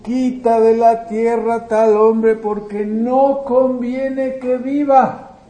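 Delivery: mock crowd shout. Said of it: "¿Y qué gritaban?".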